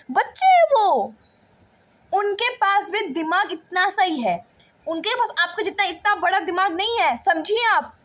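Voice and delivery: teacher confronting another teacher, indignant; heated argument. Acted. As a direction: defend the kids hotly to a rival teacher.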